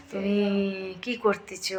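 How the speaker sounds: the question in Namasudra village Bengali; a light sample of Namasudra speech; Namasudra dialect. Shown as a demonstration. Demonstrating dialects to viewers, Namasudra Bengali accent. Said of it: "নমদের ভাষায় বলবে".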